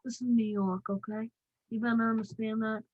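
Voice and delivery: put-on amateur go at a New York accent. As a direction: do a hammed-up New Yorker accent. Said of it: "I'm trying to do my best accent".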